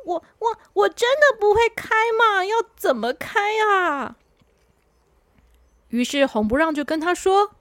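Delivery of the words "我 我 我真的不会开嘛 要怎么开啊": higher stammering nervous question; girl at the wheel, a touch of nerves. Acted. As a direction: stumble over the words in nerves. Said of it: "她还是很紧张".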